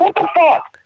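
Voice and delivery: high-pitched incredulous exclamation; mock disbelief. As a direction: act out being baffled, voice shooting up. Acting out baffled reaction to classmate.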